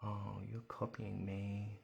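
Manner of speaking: talking around a pencil in the mouth. Real, not acted. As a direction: speak with a pencil between the lips. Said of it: "I'm putting my pencil in my mouth".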